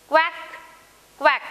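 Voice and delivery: two short, separate quacks; duck quack. Shown as a demonstration. Teacher voicing duck for pupils to repeat, short quacks. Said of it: "माझ्या मागं म्हणायचंय".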